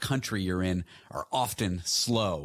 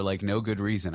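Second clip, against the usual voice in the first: normal talking voice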